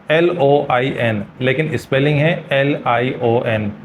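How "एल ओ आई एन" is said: slow spelling. Shown as a demonstration.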